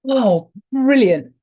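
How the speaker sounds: loud, slow "Oh, brilliant" then laughter; delighted. Real, not acted. Thrilled the book opened on the page, loud delight. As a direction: revel in the lucky find.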